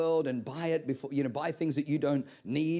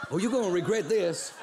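mock threat. Fifty dollar bill threatening the giver, mock vengeful. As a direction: grumble a vengeful promise.

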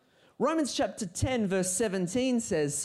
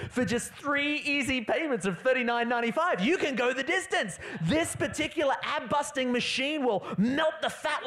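mock TV ad; 5 semitones higher than usual. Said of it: "if you believe the T V, it will say".

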